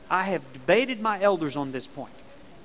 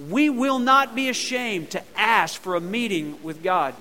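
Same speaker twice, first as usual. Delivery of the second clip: louder, said together with the crowd; louder group recital; 3 semitones higher, 5 dB louder than usual. Shown as a demonstration. Pastor leads the church reciting the point, louder. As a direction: lead the congregation in a loud recital. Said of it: "Let's say it together".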